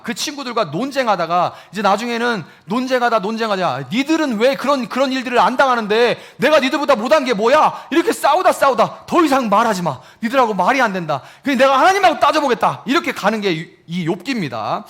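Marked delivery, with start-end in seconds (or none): 3.9-7.9 angry retort. Retold or imitated. Job arguing with friends. 9.1-12.8 fed-up outburst. Retold or imitated. Job cutting friends off.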